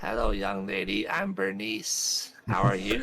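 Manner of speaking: put-on sweet old grandma voice; lightly voiced doting grandma. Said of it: "I like your grandma voice".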